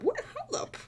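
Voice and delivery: high, loud, laughing disbelief; incredulous reaction. Retold or imitated. Retelling their reaction to the Let's Play, laughing incredulity. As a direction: re-enact a shocked double take, laughing.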